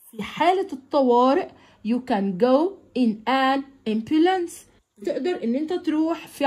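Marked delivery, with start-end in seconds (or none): 1.9-4.5 slow textbook reading. Shown as a demonstration. Teacher reading the lesson text aloud to pupils, slow and clear. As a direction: read each English phrase out slowly for the class.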